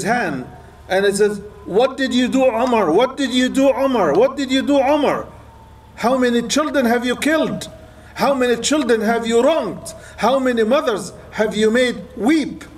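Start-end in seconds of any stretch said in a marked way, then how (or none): 1.6-12.6 higher, rising lament building with each repeat; anguished self-rebuke. Retold or imitated. Umar, learning of the weaned children, crying out at himself in anguish. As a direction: cry out at yourself, each time more pained.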